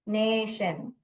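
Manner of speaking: नेशन with a stretched first vowel; drawn-out ने, then शन; long A sound. Shown as a demonstration. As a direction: hold the "ay" in नेशन. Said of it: "long sound बोल रहा है".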